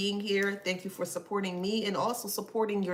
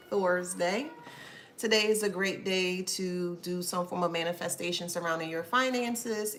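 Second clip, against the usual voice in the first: normal talking voice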